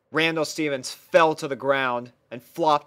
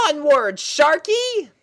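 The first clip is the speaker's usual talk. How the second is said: high, louder pony princess cry; rally the shark forward, pitched way up; 6 dB louder, slower than usual. Acted. Princess Sparkle urging shark on.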